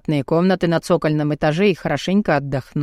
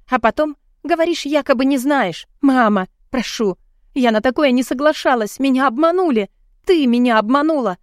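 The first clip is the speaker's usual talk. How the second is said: desperate pleading; 6 semitones higher than usual. A narrator's reading. Desperate pleading angry phone call.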